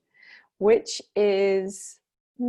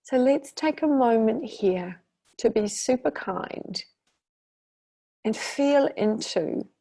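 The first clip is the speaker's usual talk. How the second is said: guided meditation. Acted. Teacher guiding listeners through long healing breaths, guided meditation. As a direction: lead them unhurriedly through each breath.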